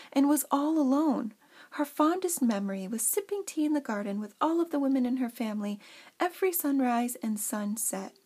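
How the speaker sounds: heartfelt, expressive storybook reading; theatrical read-aloud, lingering on key phrases; story narration. Acted. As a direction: read it like a tender tale, with measured emphasis. Reads her story aloud.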